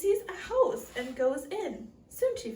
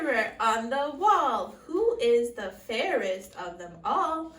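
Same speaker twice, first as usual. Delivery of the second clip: queen voice; 6 dB louder than usual. Acted. Queen addresses magic mirror.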